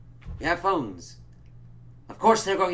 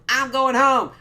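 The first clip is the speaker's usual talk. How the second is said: high, loud cry to flee; high panicked yelp; 11 semitones higher, 10 dB louder, slower than usual. Retold or imitated. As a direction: yelp it like you want out now. Acted own panic reaction.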